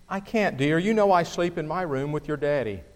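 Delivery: gentle, soft reassurance; tender mother. Acted. Mother comforting her scared son, tender and soft. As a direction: soothe the child kindly. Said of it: "said tenderly".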